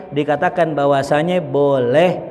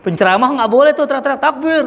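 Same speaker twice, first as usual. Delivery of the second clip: questioning listener; 9 semitones higher, faster than usual. Retold or imitated. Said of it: "ada yang nanya gini".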